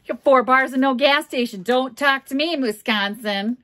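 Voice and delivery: loud, high teasing telling-off; playful loud trash talk, high-pitched; mock scolding.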